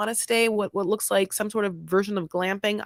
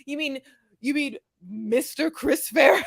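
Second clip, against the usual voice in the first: mock polite correction; 4 semitones higher, 8 dB louder than usual. Mock formal reply to Ben.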